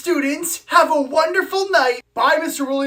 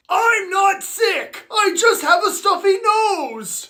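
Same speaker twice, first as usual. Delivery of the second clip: higher, exasperated denial; indignant protest; 5 semitones higher, slower than usual. Acted. Boy accused of being sick, indignantly protesting. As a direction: push back, insisting on every word.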